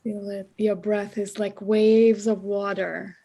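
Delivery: measured, calming meditation voice; guided meditation. Real, not acted. Teacher settles the class into breathing, guided meditation. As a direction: guide them into the breath with long pauses.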